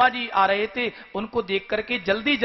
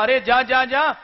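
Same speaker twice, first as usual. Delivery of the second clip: loud, higher scornful shout of go away; angry dismissal; 5 semitones higher, 5 dB louder than usual. Acted. Sharmishtha in anger shouting at Devayani to go. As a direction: shoo her off in a rage. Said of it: "क्रोध में आकर के कहा".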